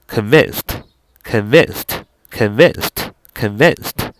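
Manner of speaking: convinced slow, the weight on vinced; stress on vin. Shown as a demonstration. English teacher drilling the class on word stress, slow and deliberate. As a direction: stretch out each convinced, leaning on vinced. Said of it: "重音在win啊".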